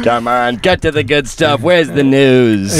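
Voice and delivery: high-pitched, drawn-out mock pleading; impatient demand. Acts out impatience with small talk.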